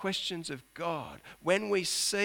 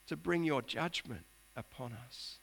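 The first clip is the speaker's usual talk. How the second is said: voicing Habakkuk's question; 8 semitones higher, 7 dB louder than usual. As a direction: plead why, then drop away. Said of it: "he's asking the question".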